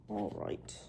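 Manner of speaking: very low, soft "all right"; odd-sounding voice. Real, not acted. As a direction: drop it way down low and quiet. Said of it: "Why do I sound like that".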